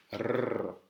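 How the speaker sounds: R as a long tongue-tip trill; R roulé. Shown as a demonstration. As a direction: sustain a rolled Spanish R. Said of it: "des lettres difficiles à prononcer". (long roulement de la langue)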